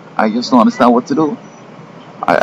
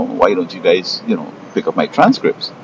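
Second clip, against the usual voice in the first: calm request; 4 dB quieter than usual. Retold or imitated. Asking university staff to fetch his transcripts, calm and unhurried. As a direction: ask it patiently, no edge at all. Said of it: "I just calmly said".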